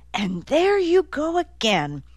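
high-pitched, needling retort; mocking exasperation. A narrator's reading. Nick catching Dozer lying, mockingly exasperated. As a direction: call out the lie with scorn. Nick mocks another lie.

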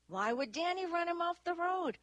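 high, agitated question; indignant disbelief. A narrator's reading. Dewey defends his fellow officer to Annie, indignant. Acted quarrel over the crash.

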